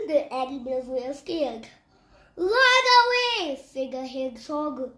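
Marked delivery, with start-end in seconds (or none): 2.3-3.6 high, loud warning cry; frightened shout. Acted. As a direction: yell it to scatter everyone. Hedgehog warns animals.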